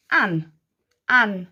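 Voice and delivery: "an" as one short blended sound; "an" said once, pause, then repeated. Shown as a demonstration. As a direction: join the sounds into a firm "an". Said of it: "We're gonna slow-mo it".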